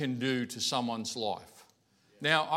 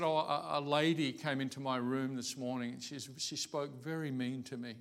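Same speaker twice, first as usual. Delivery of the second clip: lightly voiced upset mum, trailing softer; feeble upset mum; 5 dB quieter than usual. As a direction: retell a hurt complaint, lightly imitating feebleness. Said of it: "she's a bit feeble when she talks".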